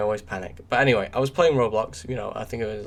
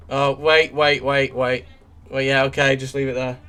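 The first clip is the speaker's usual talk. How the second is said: real sudden panic; 3 semitones higher, 6 dB louder than usual. Real, not acted.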